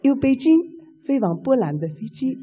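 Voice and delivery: flight attendant announcement. Retold or imitated. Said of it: "学学".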